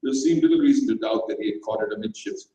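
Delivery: ordinary delivery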